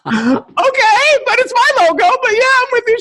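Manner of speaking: excited reply. Retold or imitated. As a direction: play along, giddy and high. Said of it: "I was like".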